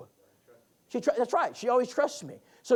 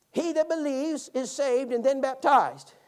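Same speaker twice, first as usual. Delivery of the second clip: put-on higher, slow, louder old woman reciting; slow old lady recital; 7 semitones higher, 6 dB louder, slower than usual. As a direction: imitate an old lady reciting a verse she thinks she knows, slowly. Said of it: "would you read that again".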